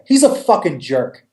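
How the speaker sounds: hard F on "fucking". Retold or imitated. Describing Pissed Off Panda to people, hard F on "fucking". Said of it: "just using that hard F".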